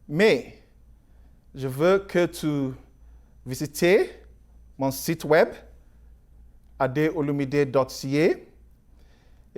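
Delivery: halting French with an English accent; foreign accent in french. Real, not acted. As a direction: speak French as a non-native, searching for words. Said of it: "Mon français n'est pas très fort".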